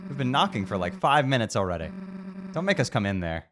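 bang on the door and shout; impatient friend yelling through the door; impatient call. Acted.

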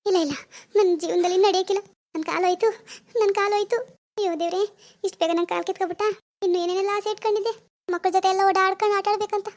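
put-on sobbing self-pity; melodramatic wailing. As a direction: mourn the leg as if lost forever. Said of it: "ಥು, ಎಷ್ಟು ನಾಟಕ ಮಾಡ್ತಾರಪ್ಪ ಇವ್ರು".

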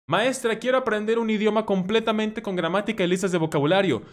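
lightly mock a pupil asking something foolish; silly classmate. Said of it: "alguien en tu salón dijo una reverenda tontería".

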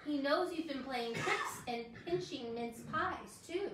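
storybook reading for little ones; reading to children. Acted. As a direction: read it like a bedtime story. Reads a children's book aloud.

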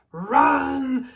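sudden high shout of alarm; urgent cry to run; yell. Acted. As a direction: bark the order to flee. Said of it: "Harry yelled".

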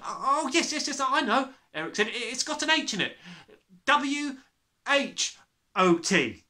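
put-on high, timid boy's voice; brave small boy. Small boy daring to question the headmistress.

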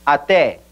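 ATÉ as "ah-TEH"; open stressed e. Shown as a demonstration. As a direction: stress the last vowel of ATÉ, keeping it open. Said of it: "esa E es abierta porque está acentuado".

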